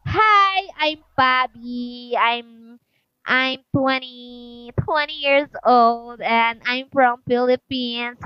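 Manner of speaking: slow, careful self-introduction; interview introduction. Shown as a demonstration. Vlogger rehearses for the US interview, slow and careful. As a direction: introduce yourself slowly for an interviewer. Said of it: "like this".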